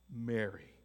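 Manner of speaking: "Mary" spoken softly with a falling tune; tender name. Acted. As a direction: say "Mary" with quiet emotion. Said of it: "saying it with passion, with emotion".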